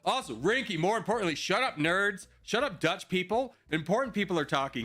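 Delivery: mock yelled shut up. Mock scolding chat during stream.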